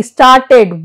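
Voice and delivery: "Started" in two syllables, full "ted" ending; pronounced E. Shown as a demonstration. Teacher shows E after T, "Started" with full E. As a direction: sound the E clearly in "Started", as star-ted. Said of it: "but here it is pronounced".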